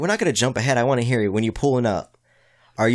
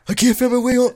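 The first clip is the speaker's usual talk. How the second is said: put-on high, quavering confused old man; 12 semitones higher, 5 dB louder than usual. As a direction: play a lost, befuddled grandpa. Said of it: "Like, I'm trying to do old guy".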